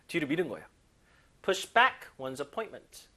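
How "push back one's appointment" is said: "back" hit hardest, slowly; slow, stress on back. Shown as a demonstration. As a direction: lean on "back" in "Push back one's appointment". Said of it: "강세 뒤에 가야 돼요".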